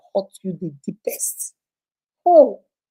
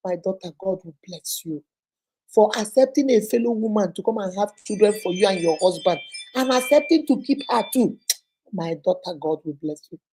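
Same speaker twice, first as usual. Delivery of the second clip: tender blessing. Retold or imitated. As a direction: bless her gently, like a grateful elder. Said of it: "Nkechi told us".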